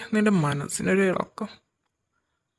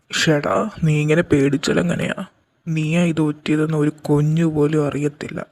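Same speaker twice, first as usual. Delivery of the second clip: loud scolding; 7 dB louder than usual. Acted. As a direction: shake him out of his fear, loudly. Boss scolds frightened helper.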